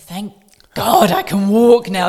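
loud slow relief; relieved exclaim. Retold or imitated. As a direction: let it burst out relieved. Relief at walking.

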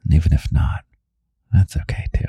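whispered ASMR podcast, close to the ear; intimate whisper. Real, not acted. Host alone with little bunny late at night, whispering.

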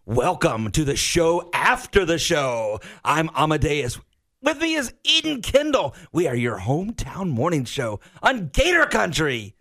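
over-the-top seventies cartoon host; bouncy animated voice, swooping pitch; cartoon character voice. Shown as a demonstration. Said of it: "pretend you're a cartoon character".

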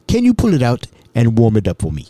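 brisk request, lightly imitated African accent; hint of an African man's voice. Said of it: "Mbutu was an African".

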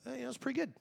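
soft, hesitant mock cover-up; evasive mumble. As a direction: mumble a guilty dodge. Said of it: "it's like".

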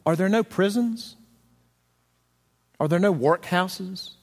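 a callous miser's rhetorical questions; Scrooge's dismissive retort. Retold or imitated. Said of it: "And Scrooge is relieved to hear that".

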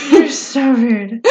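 drawn-out words through laughter; laughing protest. Real, not acted. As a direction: say it slowly while cracking up. Teased by co-host, laughing.

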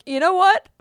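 about to let him have it; fed-up customer confronting the dealer; ticked off. Retold or imitated. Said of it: "I was ticked".

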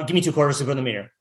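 quick, matter-of-fact imitation of a demand; unpleading demand. Shown as a demonstration. How she didn't ask for meter change, brisk demand. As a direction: rattle it off fast with no supplication. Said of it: "Now, she didn't say".

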